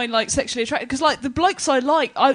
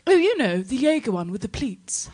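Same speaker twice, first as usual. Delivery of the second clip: middle-class. Retold or imitated. Woman explaining on her mobile which skirt, middle-class. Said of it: "says the most middle-class thing I've ever heard".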